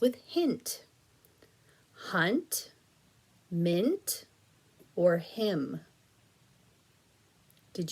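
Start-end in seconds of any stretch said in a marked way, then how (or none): 2.1-5.8 whispered. Shown as a demonstration. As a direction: breathe the choice without voice. Teacher reading rhyme answer choices.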